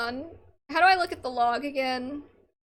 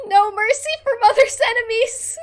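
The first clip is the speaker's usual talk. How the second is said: put-on higher, much louder gloating child; gleeful loud declaration; 9 semitones higher, 11 dB louder than usual. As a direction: shout it with wicked glee. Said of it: "And I was all".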